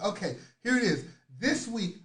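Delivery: ordinary talk, nothing marked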